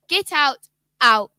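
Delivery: loud, furious command to leave; angry shout. Acted. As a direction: shove her out with the voice. Father pushing stepmother out.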